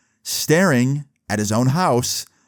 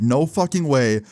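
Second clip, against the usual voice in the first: slow, drawn-out mock disbelief; mild freak-out, slowing and dropping off at the end; retold freak-out; slower than usual. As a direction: imitate an amazed fan, stretching the words out. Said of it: "this kid is freaking out".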